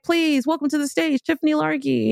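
high announcer voice; imitating the host introducing her. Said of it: "she's like".

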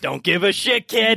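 gruff dismissive NPC. Acted. NPC snarls at kid.

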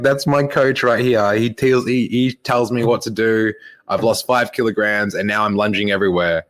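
put-on childlike excitement. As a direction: mimic an overexcited pastor bragging on stage. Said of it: "such childlike behavior".

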